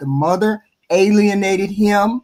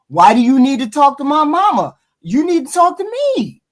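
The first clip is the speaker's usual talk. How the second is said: mock angry daughter; 4 semitones higher than usual. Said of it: "Then she went off".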